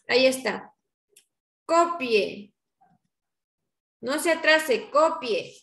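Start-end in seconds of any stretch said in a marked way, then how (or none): 1.6-5.6 teacher's order. Shown as a demonstration. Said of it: "Ahí estoy dando una orden".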